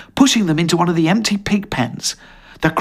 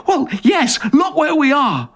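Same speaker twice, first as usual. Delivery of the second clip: mocking; 10 semitones higher than usual. Mocking quoted reply.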